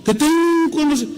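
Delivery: high, mocking voice of a disdainful elder; scornful old theologian. Proud theologian dismissing the nervous young preacher, scornfully. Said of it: "Como diciendo".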